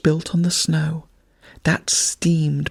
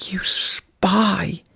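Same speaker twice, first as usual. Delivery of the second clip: higher, hissed "You spy"; hissed insult; 4 semitones higher than usual. A narrator's reading. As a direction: spit it out as a hiss. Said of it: "he hissed".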